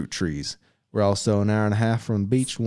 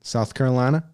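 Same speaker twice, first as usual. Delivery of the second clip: attempted Southern accent; 4 semitones higher than usual. Shown as a demonstration. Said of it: "tried to pronounce it like the Southern".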